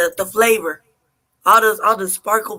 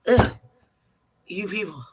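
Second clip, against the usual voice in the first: disgusted aside. Retold or imitated. Waitress grumbling about a customer, disgusted aside. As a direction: mutter it under your breath in disgust. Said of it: "Like that".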